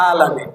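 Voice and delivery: আলামিন said low and soft, with a Bengali vowel and no clear final n; Bengali-style reading. Shown as a demonstration. Preacher repeating the wrong Bengali আলামিন to the listeners, low and soft. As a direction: mimic the flat Bengali আলামিন. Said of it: "কি পড়বে?".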